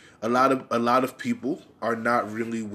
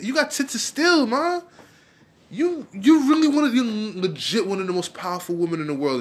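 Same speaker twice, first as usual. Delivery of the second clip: incredulous voters; 5 semitones higher than usual. Retold or imitated. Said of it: "people were looking at her like".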